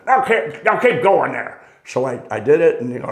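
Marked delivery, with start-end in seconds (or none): 0.1-1.6 a hint of a higher, firm mentor voice; lightly voiced coaching old pro; mock firm instruction; old master instructing.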